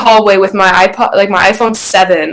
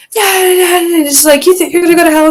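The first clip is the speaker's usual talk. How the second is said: mock sarcastic mom; 10 semitones higher, faster than usual.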